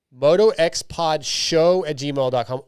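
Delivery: "show" punched in a slow, careful address; stress on show. Shown as a demonstration. Host repeats the correct email for listeners, emphasis on "show". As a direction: spell out the address slowly, hitting "show". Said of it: "people have got that wrong".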